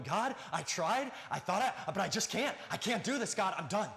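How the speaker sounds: acted frustrated outburst, pitch climbing; mock despairing yell, halting then giving up; yelling at God. Discouraged believer giving up on God, frustrated yelling. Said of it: "you start yelling at God".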